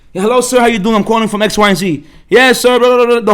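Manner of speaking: lightly voiced eager salesman, loud; salesman pitch voice. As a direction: rattle off the pitch, upbeat and loud. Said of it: "goes through every single line".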